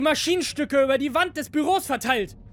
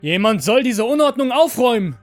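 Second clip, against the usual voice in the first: high, loud shouted order; calling out; 9 semitones higher, 10 dB louder than usual. A narrator's reading. Second master ordering androids to clean up, shouting out. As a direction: holler across a factory floor. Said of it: "ruft der zweite Meister in den Fabrikraum".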